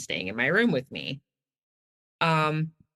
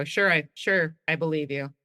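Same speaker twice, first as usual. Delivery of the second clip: begrudging. Retold or imitated. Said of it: "gritting my teeth, begrudgingly".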